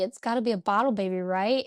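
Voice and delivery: rushed, wheedling second ask; fast pleading repeat. Retold or imitated. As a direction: hurry it like a kid begging dad. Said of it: "I'm like".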